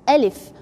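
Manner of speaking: slow model Alif; correct alif. Shown as a demonstration. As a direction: teach Alif clearly. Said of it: "Say alif".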